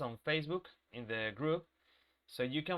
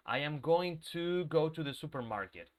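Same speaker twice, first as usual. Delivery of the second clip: every word spelled out, stiff and unnatural; overly careful speech. Shown as a demonstration. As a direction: say it word by word like a textbook. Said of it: "No, people don't talk like that".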